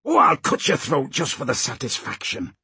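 understated menacing hiss; hissed threat. Acted. Slank threatens his captive Molly, restrained hiss. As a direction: threaten her close up without raising the voice. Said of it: "Slank hissed at her".

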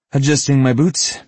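nervous cover, pitch slipping up. Acted. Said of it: "his voice a little more high-pitched than he'd wanted".

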